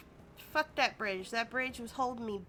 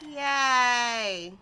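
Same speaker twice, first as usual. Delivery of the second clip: excited cheer; 9 dB louder than usual. Real, not acted. Cheering after taking the quest.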